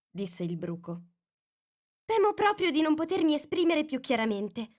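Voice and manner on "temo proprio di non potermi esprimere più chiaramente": very politely. A narrator's reading. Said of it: "con molto buon garbo".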